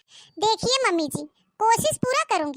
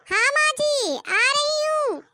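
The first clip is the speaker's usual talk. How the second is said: a high answering call, slow and drawn out; calling back; 7 semitones higher, 3 dB louder, slower than usual. Acted. Daughter-in-law answers her mother-in-law's call, calling back. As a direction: answer from far off, stretching the words.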